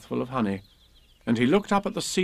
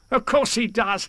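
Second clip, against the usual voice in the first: high character voice, laughing after; Tigger; 10 semitones higher than usual. A narrator's reading. Tigger assures Pooh he is known, high chuckling voice. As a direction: answer confidently and chuckle as Tigger. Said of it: "said Tigger".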